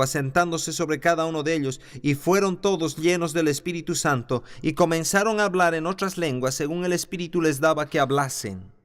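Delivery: lectura bíblica algo más aguda y fluida; scripture reading. Acted. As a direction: read the passage out to the congregation. Reads Acts chapter two aloud. (lectura solemne de la Escritura)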